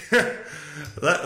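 usual speaking voice

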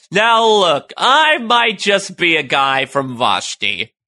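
lightly hammed-up simple outsider making a plea; unfrozen caveman Romulan. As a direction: start high, then stretch it out slowly, mock-folksy. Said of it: "the unfrozen caveman Romulan".

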